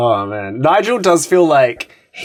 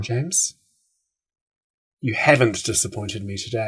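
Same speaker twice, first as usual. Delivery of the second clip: much softer, hushed threat; quiet menace; 2 semitones lower, 7 dB quieter than usual. Retold or imitated. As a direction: drop to a hushed warning. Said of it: "my voice drops back to a quiet whisper".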